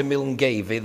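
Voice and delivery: Milngavie said as miln-GAY-vee; mistaken pronunciation. Shown as a demonstration. Warning visitors asking the way, Milngavie pronounced miln-GAY-vee. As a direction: read Milngavie letter for letter, "Miln-gayvee". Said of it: "they will laugh at you".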